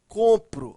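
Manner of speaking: "compro" with a firm first syllable; teacher's demo of "compro", COM stressed. Shown as a demonstration. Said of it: "a sílaba mais forte é com".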